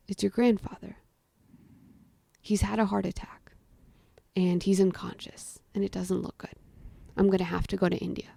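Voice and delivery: soft, subdued retelling of grave news; subdued bad news. Mother telling child of grandfather's heart attack, subdued. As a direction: break the news quietly.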